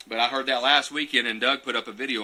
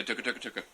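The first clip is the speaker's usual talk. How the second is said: turkey gobble imitation; 10 dB quieter, much faster than usual. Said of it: "And the gobble say".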